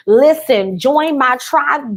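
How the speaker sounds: slow, drawn-out, punchy join; hyped invite. Shown as a demonstration. Coach showing the right way to pitch, hyped and slow. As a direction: sell it like a club worth joining. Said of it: "Make it sound amazing".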